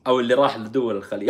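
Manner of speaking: ordinary talk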